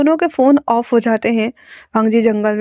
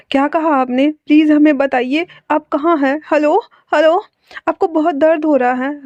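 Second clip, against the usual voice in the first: higher, anxious pleading into the phone; worried pleading; 4 semitones higher than usual. Acted. Caller begs stranger on phone, higher anxious plea. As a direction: beg him to answer, rising worry. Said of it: "उसकी रोने वाली आवाज़".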